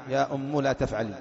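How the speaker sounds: "أم" said as ummu; damma on mim. Shown as a demonstration. Teacher asks who will parse it, "أم" as ummu. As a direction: put a short u on the end of "أم". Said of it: "بضم الميم".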